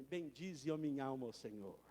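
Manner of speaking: low, soft opening of the psalm; gentle, hushed Bendize; quiet reverent psalm. Acted. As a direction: murmur the blessing softly. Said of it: "ele começa assim".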